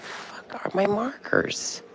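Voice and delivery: slow, breathy whisper to herself; exasperated whisper. Real, not acted. Vlogger whispering to herself while hunting for her markers. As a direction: hiss it out in frustration, slowly.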